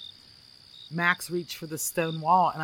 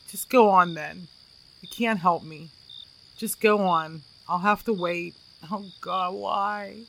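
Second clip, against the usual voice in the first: near tears; 2 semitones higher, 5 dB louder than usual. Retold or imitated. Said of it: "almost with what sounded like he was crying".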